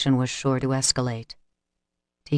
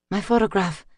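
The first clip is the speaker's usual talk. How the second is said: a grief-stricken wail, higher; mournful wail, pitched up; 5 semitones higher than usual. A narrator's reading. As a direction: cry out over the ruined picture. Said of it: "she wailed".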